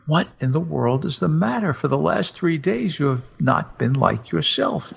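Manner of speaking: a keen husband coaxing his wife; husband's voice. Acted. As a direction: raise the pitch for the hopeful husband.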